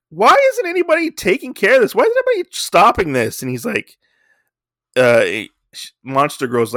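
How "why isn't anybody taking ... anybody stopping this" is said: high, fast, loud panicked yell; frantic shout. Retold or imitated. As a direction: yell for someone to step in.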